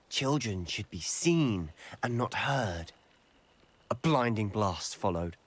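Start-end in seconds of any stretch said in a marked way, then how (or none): 0.1-2.9 slow, measured imitation of an icy voice. Youth retelling the voice from the smoke, icy and slow. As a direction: quote it slowly and coldly. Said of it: "an icy voice drifted out".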